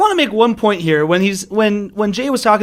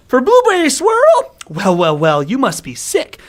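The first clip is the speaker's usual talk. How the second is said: grandma voice; 4 semitones higher than usual. Retold or imitated. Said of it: "and the grandma goes".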